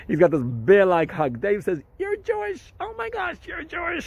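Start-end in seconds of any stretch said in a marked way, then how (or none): 2.0-4.0 much higher, amazed and thrilled; delighted surprise. Retold or imitated. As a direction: gush with joy at the news. Dave's delighted surprise, retold.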